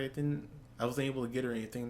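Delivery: softly voiced, downcast and quick; a touch of sadness, hushed and hurried; sad. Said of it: "he's really sad. He's like".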